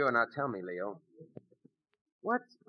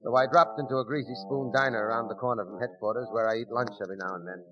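story narration; 5 dB louder than usual. A narrator's reading. Narrator over music.

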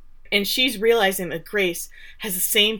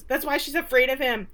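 acted screaming; 6 semitones higher than usual. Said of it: "Andy starts screaming".

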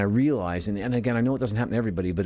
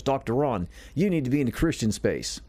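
attempted Australian accent, a little higher; 5 semitones higher than usual. Young man advising a doctor in the group, attempted Australian accent. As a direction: imitate a friend's Australian accent, lightly. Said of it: "in an Australian accent".

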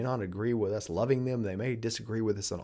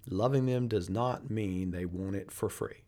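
slower, weighty repeat; slow and deliberate. Shown as a demonstration. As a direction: say it again, slowly, letting it sink in. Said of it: "I want you to pay attention".

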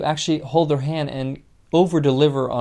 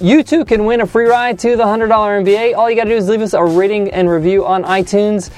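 loud promo read, pitched up; upbeat announcer; 5 semitones higher, 8 dB louder than usual. Acted. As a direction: project it like a radio giveaway plug. Announces winner, plugs reviews.

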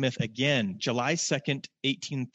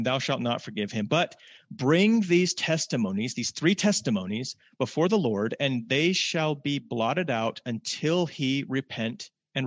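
scripture reading. Acted. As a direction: proclaim each verse deliberately. Preacher reads scripture aloud.

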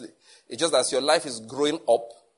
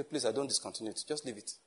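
much softer, mock-pleading voice; mock meek plea; 2 semitones lower, 11 dB quieter than usual. Secretary begging the pastor to leave it, mock meek.

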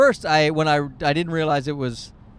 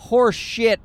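sarcastic scorn; 4 semitones higher, 4 dB louder, slower than usual. Retold or imitated. Mocking fancy beer.

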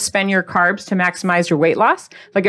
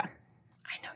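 1 whisper; 30 dB quieter than usual. Real, not acted. Whispered aside to viewers.

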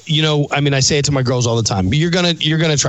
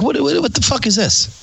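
high-pitched, stammering bafflement; mock disbelief; 9 semitones higher than usual. Reacting to a stranger offering blow, mock disbelief. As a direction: play up being flabbergasted.

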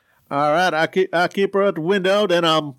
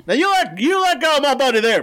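high, tough-guy warning; tough threat; 8 semitones higher than usual. Acted. Driver warning the vampire off his buddy, tough. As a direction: warn her off your buddy.

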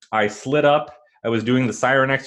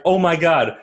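stunned joy; 6 semitones higher, 4 dB louder than usual. Retold or imitated. Stunned caller reaching his idol.

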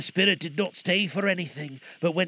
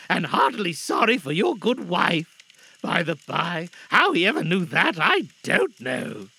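loud, deliberate, heartfelt telling; earnest father Bob; 3 semitones higher, 5 dB louder than usual. Acted. Bob telling family of the nephew, earnest and moved. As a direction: recount it with feeling and emphasis.

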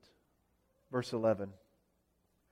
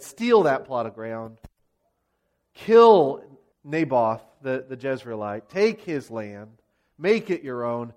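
mock sinister orders; 6 semitones lower than usual. Voices Jezebel's orders to seize land.

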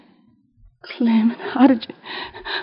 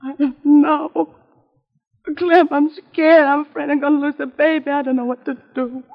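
frightened pleading. Acted. Frightened sister in hospital.

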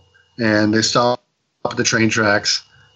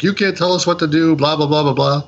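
mildly hammed-up defiance, pitched high then easing; mock belligerent drunk; 4 semitones higher than usual. Drunk friend talking back to police, mock belligerent. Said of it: "drunk friend is being a total ass".

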